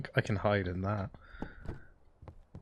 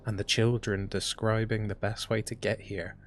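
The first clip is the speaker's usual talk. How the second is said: journal narration. Acted. Reads keeper's journal aloud.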